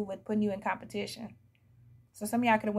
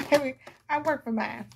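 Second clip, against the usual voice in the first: proud sass; 3 semitones higher than usual. Shown as a demonstration. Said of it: "How about that?".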